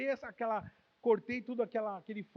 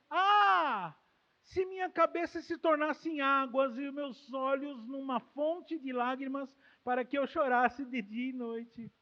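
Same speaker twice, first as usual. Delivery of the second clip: louder, yearning recitation; fervent prayer; 3 semitones higher, 3 dB louder, slower than usual. Acted. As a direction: pray it with longing. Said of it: "ele desenvolve um sonho no coração dele". (oração fervorosa e mais alta)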